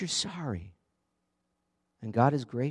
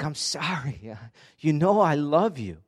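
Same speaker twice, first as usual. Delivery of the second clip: laughing plea; 3 semitones higher, 5 dB louder than usual. Acted. Peter pleads, preacher laughs.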